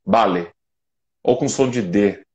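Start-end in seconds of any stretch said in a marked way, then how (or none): 0.1-0.5 vale said with a B sound, bale; Argentine vale. Retold or imitated. Speaker imitating how Argentinians say vale. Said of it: "com som de B".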